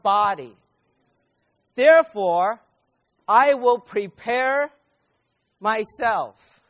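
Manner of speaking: loud, rising cry of commitment; a congregant crying out their vow to God; fervent prayer. Acted. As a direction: call out to the Lord with full resolve. Voicing the believers' prayer.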